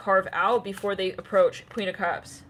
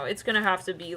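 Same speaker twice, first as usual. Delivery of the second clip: usual speaking voice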